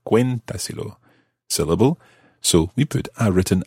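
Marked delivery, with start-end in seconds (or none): 0.1-1.0 "cuéntaselo" with CUEN higher, the rest falling away; stress on CUE. Shown as a demonstration. Teacher showing where stress stays, high CUEN then falling "cuéntaselo". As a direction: pitch up on the first syllable of "cuéntaselo". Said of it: "maintain the stress on the cue".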